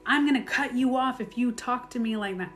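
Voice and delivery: sarcastic mean ultimatum; mock mean threat. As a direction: play the harsh version to show what not to do. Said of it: "be mean about it and be like".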